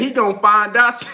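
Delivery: a hint of a mimicked UK accent; Kell Brook's UK accent. Fan retells a boxer's taunt, light mock UK accent. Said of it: "that motherfucking accent crazy".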